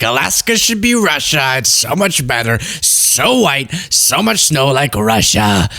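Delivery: a hint of a gargly Trump voice, drawn out at the end; lightly voiced Trump musing slowly; Trump impression. Host mocking Trump's love of Russia, lightly voiced Trump. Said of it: "my Trump impression is getting worse".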